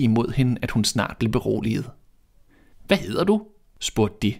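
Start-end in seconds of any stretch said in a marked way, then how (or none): 2.9-3.5 higher, gentle dwarf voice; little men asking the stranger's name; curious dwarfs. A narrator's reading. Dwarfs ask kindly.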